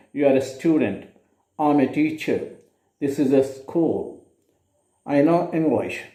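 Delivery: "You are a student," "I'm a teacher," "This is a school," "I know English." each falling at the end. Shown as a demonstration. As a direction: drop the pitch on student, teacher, school and English as plain statements. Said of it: "all of these are used with the falling tone".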